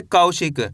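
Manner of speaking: कौशिक as one joined word, falling; model pronunciation. Shown as a demonstration. Teacher shows learners how to read it, कौशिक joined and falling. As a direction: join कौ and शिक, letting the end drop. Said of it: "कैसे पढ़ेंगे?".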